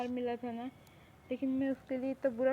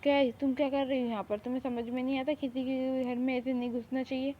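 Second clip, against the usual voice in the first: louder, mildly cross telling-off; scolding; 4 dB louder than usual. Acted. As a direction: scold an intruder. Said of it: "उनने मुझे बहुत डांटे".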